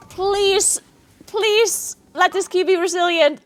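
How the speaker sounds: usual speaking voice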